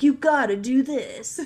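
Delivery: pumped gym bro voice. Retold or imitated. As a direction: talk like a hyped-up gym bro. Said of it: "my bro voice".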